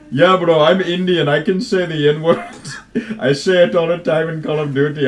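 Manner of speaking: high, loud imitation of a boasting young gamer; imitated coworker. Retelling young Indian coworker boasting.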